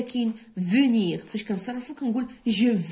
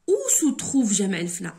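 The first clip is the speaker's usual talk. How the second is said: whisper; 4 dB louder, faster than usual. Acted. Reads exercise sentence in whisper.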